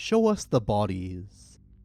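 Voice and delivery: normal talking voice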